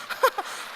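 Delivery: a hushed, silent burst of laughter; breathy silent laugh. Real, not acted. Laughing at own story. (숨죽인 웃음)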